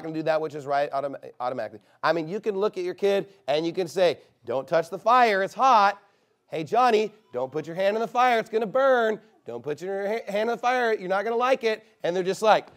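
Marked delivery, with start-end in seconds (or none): 4.5-11.8 lightly voiced parent warning a child, raised.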